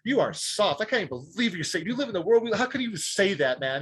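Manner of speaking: imitating a mildly angry, incredulous heckler; pissed off. Stranger berating him at the coffee shop, pissed off. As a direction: retell his scolding with rising pitch. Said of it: "he was just so pissed".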